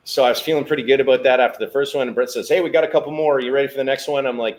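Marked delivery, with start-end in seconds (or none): 2.5-4.3 high, loud call across the corral. Retold or imitated. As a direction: call him to the next bull. Boss calling out to him.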